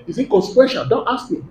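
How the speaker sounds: quiet, understated reply; gentle spirit's voice. Acted. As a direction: drop the volume to dismiss the question. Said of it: "he's a gentle spirit".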